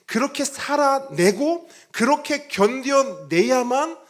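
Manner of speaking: slow, loud, high-pitched preaching push; fervent preaching. Acted. Pastor urging the congregation, slow and loud fervent preaching. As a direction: lean into each phrase like a pulpit climax. Preacher rising to full force.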